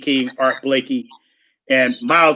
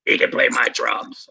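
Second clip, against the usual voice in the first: hushed aside from a jazz musician; whispered; 3 semitones lower, 3 dB quieter than usual. Retold or imitated. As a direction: whisper it, offhand and kind. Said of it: "So Art Blakey said".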